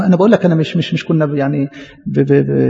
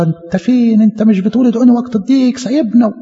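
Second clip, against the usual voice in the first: reproachful complaint; 5 semitones higher than usual. Retold or imitated. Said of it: "ووقفت قدام الصورة".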